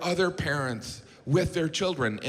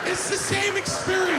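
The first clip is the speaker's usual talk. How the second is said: shouted punchline. Acted. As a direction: yell it out as the punchline.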